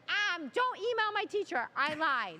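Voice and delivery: put-on child confessing. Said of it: "she said".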